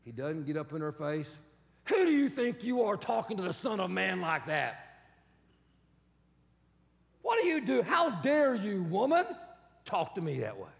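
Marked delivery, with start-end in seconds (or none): 1.9-10.7 mock indignation. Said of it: "He doesn't throw more drama".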